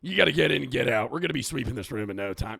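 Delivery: loud, brisk put-on country accent. Shown as a demonstration. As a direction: rattle it off in a country-boy accent. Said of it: "I would just stick with that voice".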